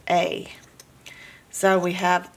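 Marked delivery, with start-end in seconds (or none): 0.1-0.5 A said as "ay"; long A sound. Shown as a demonstration. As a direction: say A like the letter's name. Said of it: "its long sound".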